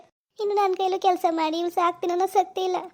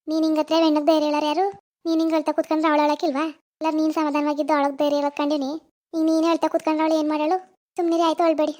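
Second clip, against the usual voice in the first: louder, firm telling-off; firm scolding; 4 dB louder than usual. Acted. Neighbour scolding the weeping aunt to stop crying, louder and firm. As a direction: talk her out of crying, firmly and loud.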